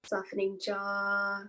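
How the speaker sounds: calm, unhurried meditation guiding with long pauses; guided meditation. Acted. Teacher leading listeners through a body scan, calm guided-meditation voice. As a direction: ease listeners into stillness, phrase by spaced phrase.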